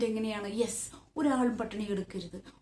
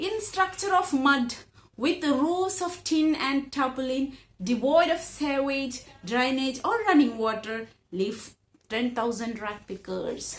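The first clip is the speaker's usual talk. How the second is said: slow, careful read-aloud of the English passage; measured classroom reading; slow textbook reading; much slower than usual. Acted. Reads text aloud.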